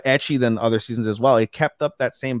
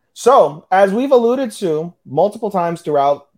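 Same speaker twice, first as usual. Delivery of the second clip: higher-pitched, emphatic boast; grand announcement; 5 semitones higher than usual. Real, not acted. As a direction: announce it proudly, building up to the big reveal. Proud build-up to show count boast.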